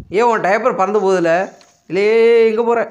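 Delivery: high, loud startled cry, slow at first; startled shout. Real, not acted. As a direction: yelp in surprise as the diaper flies. Diaper flies away suddenly.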